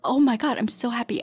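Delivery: reliving a rush of relief and joy; lightly acted elation, pitch lifted; retold overwhelming happiness. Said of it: "overwhelming happiness".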